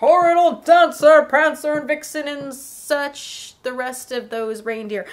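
hearty loud call that tails off; lightly voiced Santa, loud start then fading; Santa calling reindeer. Santa calling his reindeer, loud then trailing off.

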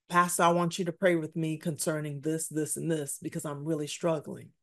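mock pleading congregant. Congregant begging at the altar.

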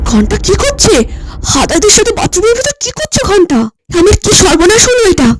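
high, shocked, near tears; horrified suspicion rising; aghast. Acted. Wife spying on husband and guest in the bathroom, aghast.

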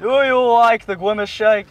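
w-for-r voice, lightly put on; Widowy voice. Reliving the awkward drive-through moment, Widowy voice. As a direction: replay the question in the silly voice. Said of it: "I'll do the Widowy voice".

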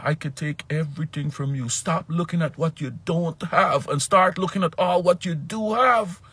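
high, loud stern rebuke; God scolding. Retold or imitated. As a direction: rebuke him like a scolding parent. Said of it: "and he was mad".

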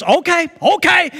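a touch of a sheepish father; meek dad. Retold or imitated. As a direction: give in quickly. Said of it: "He goes".

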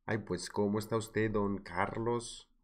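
light mock paisa accent; hint at a Colombian paisa accent, lingering on the names; acento paisa imitado. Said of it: "Me encanta el acento paisa". (leve imitación del acento paisa)

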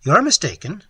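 forcing himself to speak; strained, forced out. A narrator's reading. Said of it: "but speaking with some difficulty".

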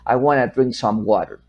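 "want to" said as one word, "wanna"; common contraction. Shown as a demonstration. Teacher giving the most common form, contracted "wanna". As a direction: reduce it to a linked "wanna". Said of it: "Lo más común es decir".

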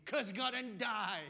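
loud, slow, spat-out command; nagging wife blasting her husband; wife's outburst. Retold or imitated. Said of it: "wife was there telling him".

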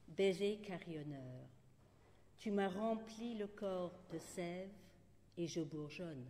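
short poems recited with spacious pauses; poetry reading. Acted. Poet ends with droll short kiss poems, measured recital. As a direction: announce each title, then deliberately place every line. Resumes poems after aside.

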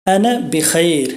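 আনা বিখাইর said slowly and clearly in Arabic; teaching আনা বিখাইর, drawn out; slow Arabic demo. Shown as a demonstration. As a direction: model আনা বিখাইর at learner speed. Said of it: "তাহলে বলবো".

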